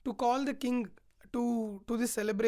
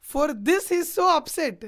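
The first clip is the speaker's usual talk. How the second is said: raised, loud disbelief; incredulous protest; 4 semitones higher, 8 dB louder than usual. Retold or imitated. Rama questions why his father is upset, incredulous. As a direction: push it out high and loud, incredulous.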